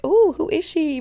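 fake-surprised at her own reflection; mock surprised. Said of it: "and I'm like".

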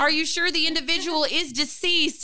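lightly voiced Southern dispatcher; questioning Southern emergency operator, imitated. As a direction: put on a touch of a Southern accent. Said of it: "in my mind she was Southern".

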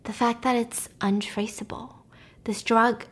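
hushed, conspiratorial villain; sinister hushed confession; secretive whisper. Retold or imitated. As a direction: lean in and whisper the dark secret. Villain husband confides secret.

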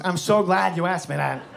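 a light impression with halting phrases; Christopher Walken. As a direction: lightly imitate an eccentric actor's delighted answer. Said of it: "Christopher Walken, hand to God, looks at me and goes".

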